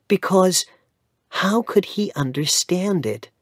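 mother explaining to Mister Havisham why she stays away; lightly voiced mother. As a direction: confide your worry to the lawyer.

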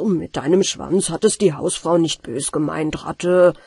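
gently calm the offended rat; comforting. Acted. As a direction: master soothing the rat, gentle and low. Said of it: "tröstete sie der Hausherr".

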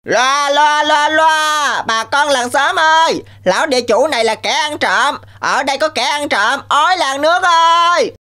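town-crier call to the whole village. Acted. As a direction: announce the thief to everyone. Rooster calls the village.

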